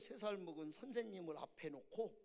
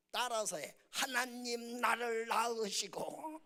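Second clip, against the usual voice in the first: higher, louder, drawn-out prayer line; imitated child leading prayer; 4 semitones higher, 7 dB louder, slower than usual. Son teaches his father to pray, loud measured recitation. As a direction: play a child dictating a prayer.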